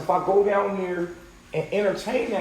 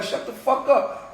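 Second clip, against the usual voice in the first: retold command; 5 semitones higher, slower than usual. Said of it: "I had to tell you".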